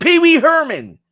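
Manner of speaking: sudden high, loud cry of recognition; shouting out a name in delight; excited. Real, not acted. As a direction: blurt the name out like you just spotted him.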